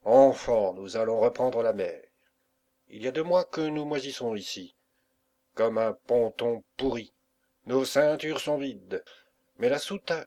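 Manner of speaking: loud, rousing address to the crew; rally the sailors like a pirate captain; a ship's captain stirring up his men; captain's rallying speech. Acted. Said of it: "parla en ces termes".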